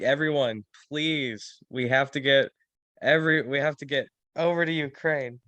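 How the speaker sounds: mock pleading, earnest and trying too hard. Imitating someone trying hard to rally everyone: imitating someone pleading. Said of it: "he's trying so hard".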